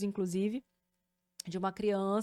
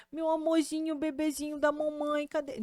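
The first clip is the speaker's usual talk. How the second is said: put-on higher, sweet sing-song for a baby; 5 semitones higher than usual. Shown as a demonstration. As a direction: call the baby in a little high voice. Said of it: "quando você faz essa vozinha".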